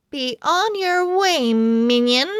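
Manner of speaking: haughty cat voice. Acted. Cat Duchess dismisses the pug, haughty. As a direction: look down your nose at the pug.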